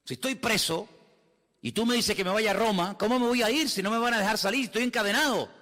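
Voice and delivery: high-pitched, insistent objection; acted protest. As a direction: object as a chained prisoner given an impossible order. Acts Paul protesting he is jailed.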